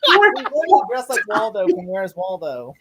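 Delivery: slow words half-laughed; laughing, slowed. Real, not acted. Repeating the Waldo joke while still laughing. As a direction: push the joke out through laughter.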